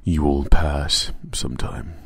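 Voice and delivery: slow, solemn ad voice-over; morbid commercial. Acted. Funeral home commercial addressing future clients, slow solemn voice-over. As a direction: intone a funeral ad slowly. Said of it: "Some commercial, it's like".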